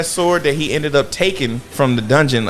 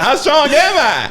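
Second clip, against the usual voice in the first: eager question; 11 semitones higher than usual. Retold or imitated. Recapping the hero asking his rank, high and eager. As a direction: ask it bursting with hope. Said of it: "He's like".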